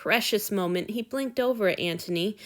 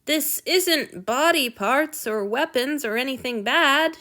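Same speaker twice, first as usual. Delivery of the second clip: soothing; 5 semitones higher than usual. A narrator's reading. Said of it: "in her most soothing voice".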